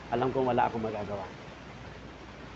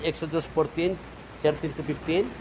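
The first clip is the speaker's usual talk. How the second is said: usual speaking voice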